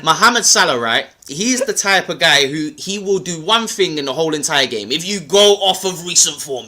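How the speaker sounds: hammed-up London street accent. Explaining to doubting fans, in a London accent. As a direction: lay the London accent on thick. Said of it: "I'll do it in my London accent".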